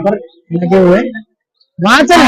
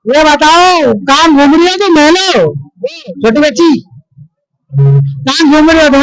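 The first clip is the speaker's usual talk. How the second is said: higher playful coaxing voice; 6 semitones higher than usual. Real, not acted. Chatting to the animals.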